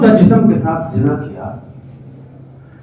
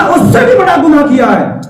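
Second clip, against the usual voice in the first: raised, pleading confession; 4 semitones higher than usual. Acted. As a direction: call out the guilt. Sinner confessing to the Prophet. (بلند آواز میں اعتراف)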